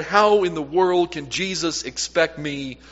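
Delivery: slowed, questioning; a hint of a puzzled congregant; slow doubting question. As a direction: voice their doubt slowly, trailing off. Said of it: "and you have said".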